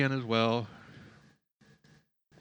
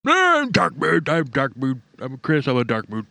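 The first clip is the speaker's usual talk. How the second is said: mocking sulky voice. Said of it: "total narcissist bullshit".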